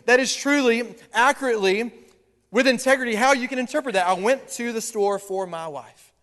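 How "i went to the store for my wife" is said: slow and sincere, lingering on went; sincere good reading. Shown as a demonstration. Pastor voicing the devoted husband's meaning for church, slow and sincere. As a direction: say it gently as a loving husband. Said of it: "on the other end, see, I got you in the light".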